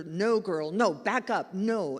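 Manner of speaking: mild mock yell at an animal; firm, retold shouted command; big commanding voice. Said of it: "in his big South African voice".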